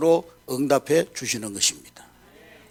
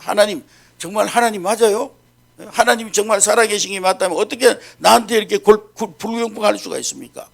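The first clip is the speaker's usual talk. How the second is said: raised, indignant questioning of God; protesting; 4 semitones higher than usual. Acted. 브루스가 하나님께 항의하듯 따지며. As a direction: demand answers, a bit higher and heated. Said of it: "하나님 앞에 항의하는 거예요".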